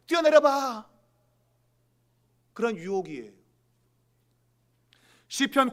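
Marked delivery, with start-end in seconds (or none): 0.1-0.9 higher, louder taunting dare; goading tempter. Acted. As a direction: call it out as a devil's challenge. Devil tempting Jesus, acted quote. (부추기며 도발하는 외침)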